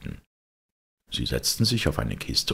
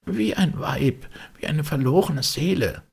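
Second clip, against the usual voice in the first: haunted servant; 3 dB louder than usual. A narrator's reading. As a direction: draw it out high and haunted. Servant describes the weeping, hushed. (hohe, gedehnte Stimme des Dieners)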